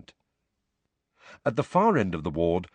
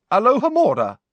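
high, loud spell call; spell incantation; 13 semitones higher, 8 dB louder than usual. Acted. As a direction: fling out the spell. Casting a spell.

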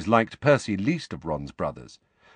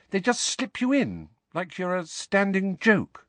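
put-on much higher girl's voice, careful; Hermione, earnest; 9 semitones higher than usual. A narrator's reading. Hermione explains the paper to Harry, high and earnest. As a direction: Hermione breaking it to him gently.

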